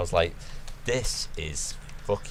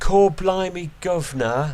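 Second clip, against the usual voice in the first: exaggerated fake British accent; 10 semitones higher, 5 dB louder than usual. Mocking how a pop singer sounds now, in a fake British accent like hers. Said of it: "That's what she sounds like now".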